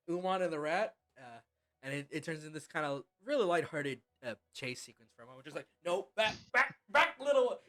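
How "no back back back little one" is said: high, loud shooing of a pet; frantic scolding voice. Acted. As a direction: shoo the little one back, flustered. DM voices a character in the chase.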